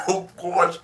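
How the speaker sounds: laughing while talking; words bubbling with laughter. Real, not acted. Laughing at a viewer.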